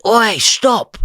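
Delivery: high sharp yell of "Oi, stop"; shouted warning. Retold or imitated. Bystander yelling at him to stop, a sharp high shout. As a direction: bark it across the street to halt him.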